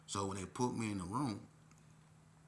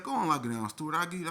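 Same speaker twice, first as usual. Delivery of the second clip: high, loud command; raised order; 8 semitones higher, 8 dB louder, faster than usual. Retold or imitated. Staffer sending youth to lock down, raised order. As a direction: order someone away over their protest.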